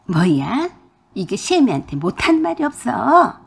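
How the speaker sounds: outraged shout. Acted. Mother-in-law answering her daughter-in-law's insult with an outraged shout. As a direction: snap back in offended fury.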